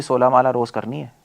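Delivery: lightly bossy, telling the guru what to do; mock instruction. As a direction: instruct as if to a junior. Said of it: "या आप मुझे आके बोलोगे". (हल्का हुक्म देने वाला लहजा)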